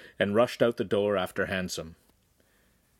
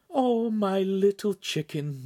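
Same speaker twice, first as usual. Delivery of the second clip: slow, higher tender comfort; soothing; 9 semitones higher, slower than usual. Acted. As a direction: soothe a crying boy gently. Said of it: "the Signora soothed".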